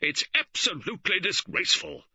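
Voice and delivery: loud, high indignant bluster. A narrator's reading. George blustering at the police over his wife, loud and high. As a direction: bluster and threaten. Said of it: "George Lee blustered".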